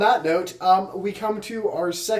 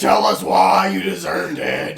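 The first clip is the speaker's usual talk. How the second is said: mock shout; 6 dB louder than usual. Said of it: "mock parent demand".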